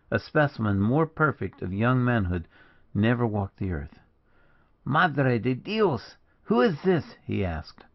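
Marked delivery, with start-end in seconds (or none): 4.8-7.1 drawn-out oath, then high sharp question; astonished and challenging; startled outburst. A narrator's reading. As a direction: demand to know who the stranger is, pitched high. Startled brother finds a stranger.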